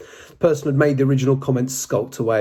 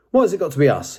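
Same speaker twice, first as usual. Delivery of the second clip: demanding; 4 semitones higher than usual. Acted. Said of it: "he demanded".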